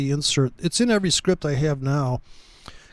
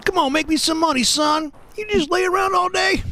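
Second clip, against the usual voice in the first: redneck yelling; 12 semitones higher than usual. Pretend. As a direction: holler at the trade like a hick. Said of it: "the redneck Metatrader".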